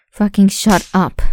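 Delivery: loud, furious yell, out of the whisper; angry shout. Acted. Captor losing temper at screaming captive, furious yell. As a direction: explode at them.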